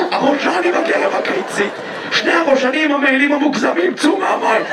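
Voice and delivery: mock official call-out; mock yelling at tadpoles. Water worker orders coated tadpoles out, mock yelling. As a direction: call out the offenders with comic authority. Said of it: "אתה צעקת על ראשנים".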